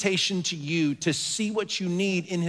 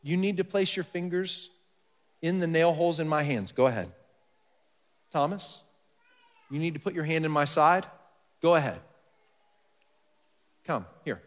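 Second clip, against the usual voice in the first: softer, gentle coaxing; merciful invitation; 3 dB quieter than usual. Retold or imitated. Jesus gently inviting doubting Thomas, softly merciful. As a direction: quietly invite him closer. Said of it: "In mercy".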